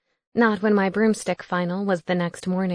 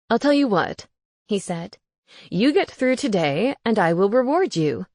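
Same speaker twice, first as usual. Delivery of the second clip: ghost roommate voice. Acted. Gareth bargaining.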